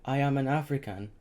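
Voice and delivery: mother replying under threat; trembling voice. A narrator's reading. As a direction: answer bravely through fear. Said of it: "Her voice trembled".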